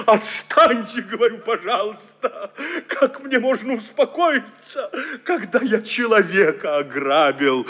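laughing, half-crying protest; distraught laughing protest. Acted. Hero laughs wildly as family tries to calm him. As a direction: push them away through hysterical laughter.

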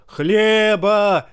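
high, loud roar. A narrator's reading. Hungry man roars for bread, high and loud. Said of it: "заревел мужчина".

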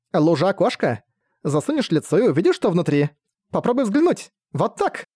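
high eager little fairy; playful fairy voice. Acted. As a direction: show off the trick like a sprite. Fairies explain the water window.

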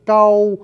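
"trâu" with tongue curled back and up; curled-tongue retroflex. Shown as a demonstration. Teacher shows viewers the curled-tongue sound, retroflex "trâu". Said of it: "cuốn cái lưỡi cong lại".

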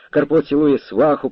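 usual speaking voice

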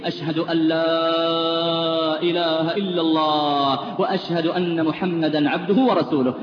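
very slow, heavy-tongued testimony; slow, labored declaration of faith; heavy tongue. Retold or imitated. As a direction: force out each word with a heavy tongue. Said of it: "بلسان ثقيل".

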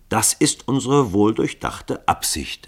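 ruhig. Acted. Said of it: "erklärte er ruhig".

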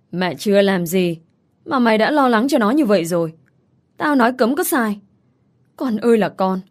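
lightly voiced scolding mother; nagging exasperated mother. Mother urging her son to forget Lâm's wife, nagging. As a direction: nag him with mild exasperation.

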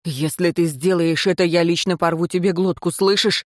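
ordinary delivery

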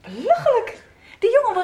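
scornful outburst. Acted. Pupil defies teacher.

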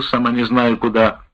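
ordinary delivery

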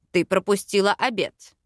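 mildly grumbling reproach; put-on male voice, a touch grumpy; grumbling king. A narrator's reading. King scolds heroine for missing dinner, grumbling. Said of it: "ворчал король".

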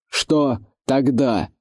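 медленная ломаная речь чужого орка; говори медленно, как чужак с ломаной речью; непривычный голос незнакомца. A narrator's reading. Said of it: "ответил невидимый орк". (невидимый орк угрожает отряду, медленно и ломано)

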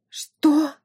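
high squealed what; shocked squeal. A narrator's reading. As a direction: shriek it in disbelief. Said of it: "взвизгнула герцогиня".

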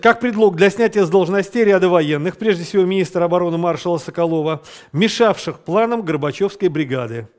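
measured dictation for students to copy; dictating. Shown as a demonstration. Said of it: "С красной строки".

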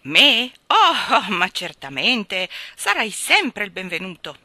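loud, pleased royal welcome; self-satisfied interruption. Acted. King wrongly assuming the cat visits him, self-satisfied. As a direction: cut in boomingly, delighted with yourself. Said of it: "interruppe il re con un riso soddisfatto".

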